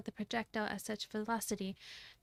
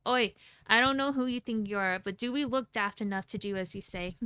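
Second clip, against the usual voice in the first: furious; 4 dB louder than usual. Acted.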